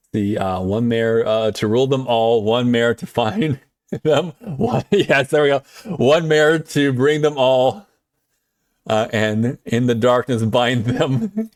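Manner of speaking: a slow, grand mock recital of an ancient verse; slow epic recital. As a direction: drag it out like a solemn movie prologue. Slow epic Lord of the Rings recital.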